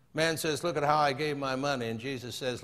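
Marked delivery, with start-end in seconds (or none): 0.6-1.9 understated boast in an even recital; lightly voiced boasting man. Man tells Jesus of his giving, mildly boastful. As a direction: lightly play the proud giver.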